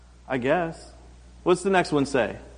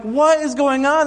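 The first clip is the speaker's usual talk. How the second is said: exasperated parent; 10 semitones higher, 5 dB louder than usual. Retold or imitated. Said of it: "And I'm like".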